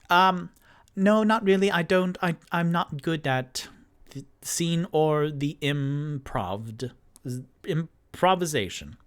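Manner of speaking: shy Rock voice. Acted. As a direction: back away from the request, stumbling a little. Rock shyly declines.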